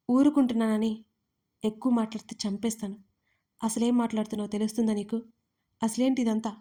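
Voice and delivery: ordinary delivery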